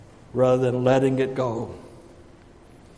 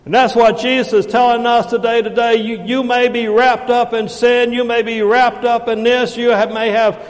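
raised, insistent, rolling sermon cadence; forceful preaching; 6 semitones higher, 5 dB louder than usual. Acted. Preacher telling people what ties them up, forceful preaching. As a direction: pile up each phrase, preaching hard.

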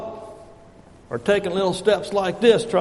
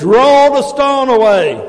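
booming, raised preacher's call; loud command; 8 semitones higher, 9 dB louder than usual. Acted. Jesus commanding us at our heart's door, loud command. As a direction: ring it out, pitched up high.

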